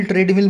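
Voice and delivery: "ट्रेडमिल" with a long ay, like trade-mill; common mispronunciation. Shown as a demonstration. Teacher quoting a common error, "ट्रेडमिल" mispronounced as trade-mill. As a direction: repeat "ट्रेडमिल" the wrong way, as trade plus mill. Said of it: "कुछ लोग ट्रेडमिल, ट्रेडमिल बोलते".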